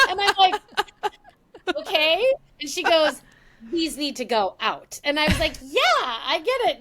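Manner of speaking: laughing as she tells it. Real, not acted. Daughter laughing while retelling her mom's last request.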